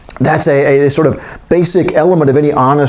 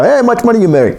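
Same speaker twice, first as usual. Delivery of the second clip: high-pitched mock American busybody; hammed-up nosy American; stereotypical American; 8 semitones higher than usual. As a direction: blurt it out high as a caricature American. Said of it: "international sort of stereotype of Americans".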